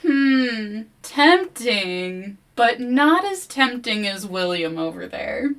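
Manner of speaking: high, loud teasing considering; mock tempted forest. The forest weighing a bone puppet against William, teasing. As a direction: muse like a sly spirit. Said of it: "the forest is like".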